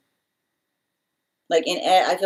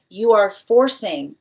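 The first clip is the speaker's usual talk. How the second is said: slow, louder accusation; accusing; 5 dB louder, slower than usual. Retold or imitated. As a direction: lean hard into each word, slow and forceful. Spirit accuses via medicine message.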